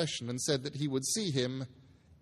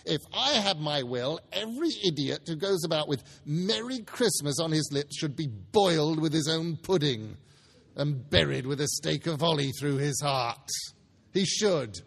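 put-on a crabby old miser scoffing at Christmas; scornful Scrooge; 3 semitones higher than usual. Scrooge sneering at his nephew, lightly voiced crabby miser. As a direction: sneer at every merry word.

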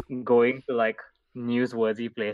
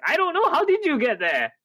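incredulous; 4 dB louder than usual. Retold or imitated. Mock reply to classmate's question.

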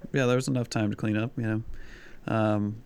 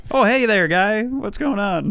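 abrupt switch to a hammed-up upper-Midwest accent, much higher and louder; flustered cover-up in an overdone Wisconsin accent; sudden northern accent; 11 semitones higher, 8 dB louder, slower than usual. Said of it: "Switched up north real quick".

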